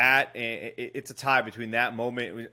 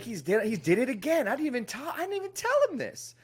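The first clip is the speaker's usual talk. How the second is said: rising higher, can't believe it; amazed disbelief; 9 semitones higher than usual. Retold or imitated. Telling friends the celebrity did it again, climbing high. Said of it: "I'm like".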